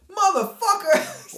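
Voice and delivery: high, slow, drawn-out mock curse; furious woman. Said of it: "And she goes".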